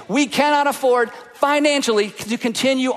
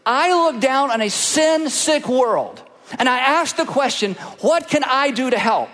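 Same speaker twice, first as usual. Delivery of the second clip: voice of God. Acted. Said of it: "our Heavenly Father says".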